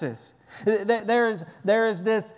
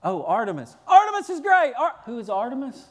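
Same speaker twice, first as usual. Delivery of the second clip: confused crowd member; 4 semitones higher, faster than usual. Retold or imitated. Preacher mocking a confused rioter in the theater, comic mock confusion. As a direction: play a lost rioter who joins the chant without knowing why. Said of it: "Some of them are standing in the theater saying".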